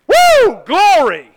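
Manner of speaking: high, loud cry of praise; joyful shout. Real, not acted. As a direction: shout it out for joy. Preacher exclaims in excitement.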